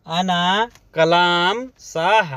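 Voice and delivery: "अना कलाम साह" spelled out slowly, word by word; slow it down so the class can repeat "अना कलाम साह"; slow teaching take. Shown as a demonstration. Teacher repeating the phrase slowly for Hindi learners.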